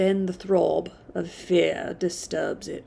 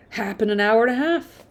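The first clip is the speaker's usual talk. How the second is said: Yorkshire driver; 3 semitones higher, 4 dB louder, faster than usual. Acted. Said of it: "Perhaps in a Yorkshire dialect".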